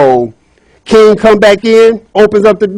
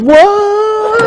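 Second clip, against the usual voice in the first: high squealed what; shocked what. Acted. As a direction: gasp it out in disbelief. Princess overhears the elf's name.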